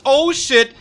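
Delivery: loud startled exclamation; shocked outburst. Real, not acted. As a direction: blurt it out in shock. Sudden disaster in game.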